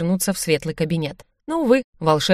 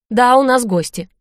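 louder, higher, more welcoming; friendlier tone; 5 semitones higher, 5 dB louder than usual. A narrator's reading. Host confirming guests to skeleton, friendlier. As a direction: turn sociable as you confirm it. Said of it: "сменяя тон на более дружелюбный".

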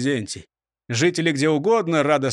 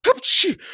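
loud high sneeze; 4 dB louder than usual. A narrator's reading. Robber sneezing before speaking, sneeze. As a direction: sneeze it out sharply. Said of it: "чихнув".

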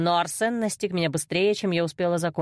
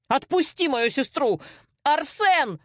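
higher, desperate yell; frantic shout; 6 semitones higher, slower than usual. A narrator's reading. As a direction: scream for him to let go. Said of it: "кричал не своим голосом брат".

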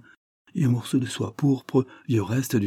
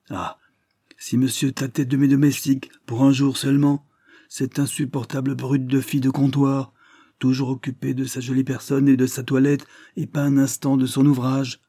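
exasperated complaint; 5 semitones higher than usual. Acted. Sophie complains about her maid.

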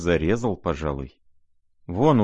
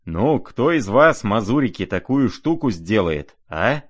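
boastful shout; 4 semitones higher, 4 dB louder than usual. Acted. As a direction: crow over the crowd like a reckless merchant. Rogozhin boasts to the crowd.

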